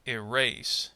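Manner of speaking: "Erase" with weak e, strong RASE; second-syllable stress. Shown as a demonstration. Teacher gives two-syllable verb example, "Erase" stressed on RASE. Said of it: "stress on the second syllable".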